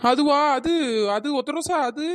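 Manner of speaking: evasive, halting drawl; hesitant drawn-out stalling. Acted. Stall owner cornered about the cockroach, hesitant drawn-out stalling. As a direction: drag out each word while hunting for an excuse. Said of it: "அவ இழுத்து பேசுறதுலே தெரியல".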